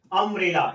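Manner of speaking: अम्ब्रेला starting on a short 'uh', not 'yoo'. Shown as a demonstration. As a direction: hit the opening 'uh' of अम्ब्रेला loudly. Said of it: "आ पढ़ेंगे, यू नहीं पढ़ेंगे". (अम्ब्रेला की शुरुआत अ से, यू से नहीं)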